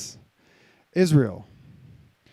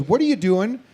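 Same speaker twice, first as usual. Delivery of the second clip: nagging inner voice; 3 semitones higher, 3 dB louder than usual. Retold or imitated. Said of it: "this old you comes online and says".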